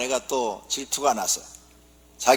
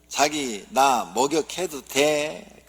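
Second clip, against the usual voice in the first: coy Seoul wife; much slower than usual. Acted. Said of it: "서울 아내가".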